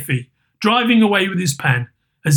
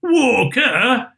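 put-on high, drawn-out boy's exclamation; disbelieving young boy, pitched up; boy exclaiming; 7 semitones higher than usual. A narrator's reading. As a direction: scoff like a street urchin. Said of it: "exclaimed the boy".

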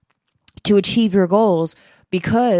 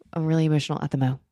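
emotional; 4 semitones lower, 5 dB quieter, much faster than usual. Real, not acted.

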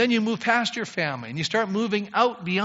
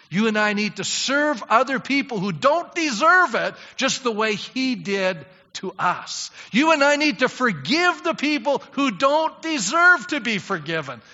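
rising, louder exhortation; exhorting preacher; 6 semitones higher, 4 dB louder than usual. Real, not acted. Preacher urging church to serve, building loud. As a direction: drive the call to action home.

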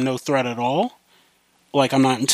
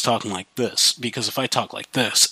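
flat low voice; 3 semitones lower, 4 dB quieter than usual. Shown as a demonstration. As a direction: lower and emotionless. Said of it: "it's a flat".

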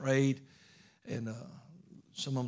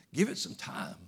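breathy whisper riding on a laugh; whispered tease; 7 semitones higher than usual. Shown as a demonstration. Teasing doubters again, a giggling whisper. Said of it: "Man, give it some time".

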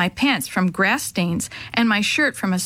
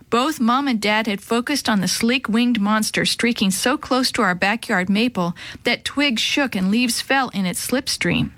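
ordinary delivery

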